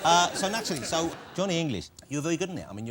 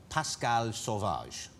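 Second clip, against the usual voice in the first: put-on French accent; 6 semitones lower, 3 dB quieter, much slower than usual. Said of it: "he played a Frenchman".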